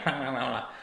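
duck voice. Retold or imitated. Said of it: "That was a terrible Donald Duck".

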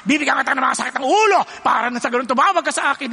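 a hint of a taunting God, rising to a fast shout; mock threatening voice of a spiteful God; mocking God's voice. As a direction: play a petty God who punishes happiness. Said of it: "akala kasi ng maraming tao ang Diyos".

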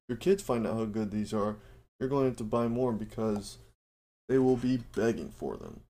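upbeat sponsor read for listeners. Acted. Host pitching Built Bar to his listeners, ad read. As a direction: sell the protein bar like a radio spot.

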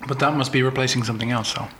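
chewing while talking; words round a mouthful of food; mouth full. Real, not acted. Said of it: "I'm chewing on a potato right now".

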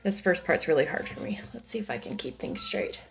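hushed whispered aside to herself; whispering. Real, not acted. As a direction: whisper it under your breath. Reader's nervous aside before reading.

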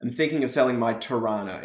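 Australian accent. Shown as a demonstration. Repeating for the learner who missed the last word, Australian accent. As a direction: clear Australian model line. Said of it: "what's the last word?".

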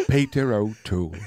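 Peter O'Toole. Retold or imitated. Co-host imitates name-only impressions, mock British voice. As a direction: say the name like a Pokemon's cry. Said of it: "they're like".

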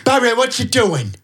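high put-on northern voice; the silly voice for mum. Shown as a demonstration. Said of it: "always speak like that to her".

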